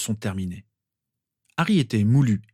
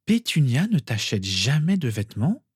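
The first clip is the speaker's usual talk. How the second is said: higher, swooping disbelieving question; incredulous; 5 semitones higher than usual. A narrator's reading. Mother asks boy about his clothes, incredulous. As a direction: ask as if you can't believe it. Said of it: "d'une voix incrédule".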